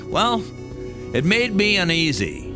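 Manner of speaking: ordinary delivery, nothing marked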